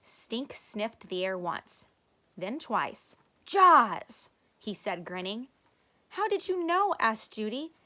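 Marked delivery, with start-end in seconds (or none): 3.4-4.3 loud, high gleeful shout; triumphant guess. Acted. 6.1-6.9 high, loud astonished question; amazed. Acted. Judy amazed.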